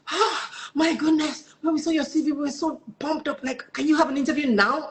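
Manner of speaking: high-pitched gushing retold reply; excited recruiter. Recruiter eagerly offers her an interview on the spot, acted excited. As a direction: imitate a thrilled recruiter, pitched well up.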